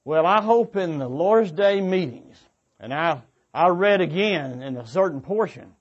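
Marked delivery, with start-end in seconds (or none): none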